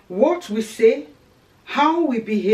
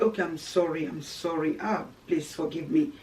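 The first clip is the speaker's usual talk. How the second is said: meek apology; 6 semitones lower, 7 dB quieter than usual. Retold or imitated. Acted meek apology after shouting.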